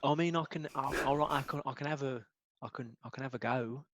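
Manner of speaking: quiet and hesitant; reluctant mumble. Acted. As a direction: mumble it, unwilling. Reluctant when asked for beat.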